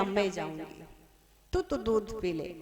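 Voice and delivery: quiet, tender insistence; gentle motherly. Acted. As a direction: hush the child gently. Mother cow soothes her calf.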